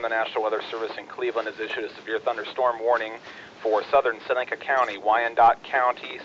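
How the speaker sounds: steady bulletin read over the radio; terse radio update. Acted. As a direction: read the warning like a net controller. Reads warning text on net.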